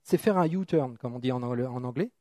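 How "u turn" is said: "U-turn" said with a French accent; English "U-turn" in a French accent. Real, not acted. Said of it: "avec mon accent français".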